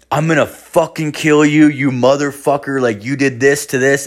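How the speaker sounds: mock menacing text read aloud forcefully; threatening. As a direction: act out an angry threat. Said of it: "threatening my life".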